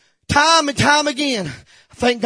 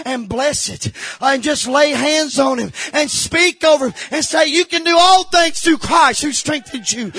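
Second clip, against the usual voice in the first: raised, driving pulpit voice; fervent sermon delivery, building at the end; emphatic preaching; 3 semitones higher than usual. Real, not acted. Preaching at full force.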